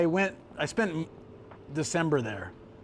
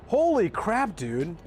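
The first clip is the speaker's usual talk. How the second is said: shocked; 3 semitones higher, much slower than usual. Real, not acted. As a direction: blurt it out in disbelief. Shocked at price.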